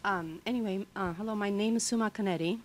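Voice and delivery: hoarse, recovering from a virus; rough, scratchy voice after illness; raspy voice. Real, not acted. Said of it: "I'm sorry for the raspy voice".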